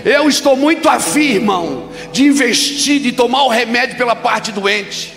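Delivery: high, loud, driving declaration; full-force preaching. Real, not acted. Preacher charging the church to take the remedy, full-force preaching. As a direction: build to a high, sustained shout.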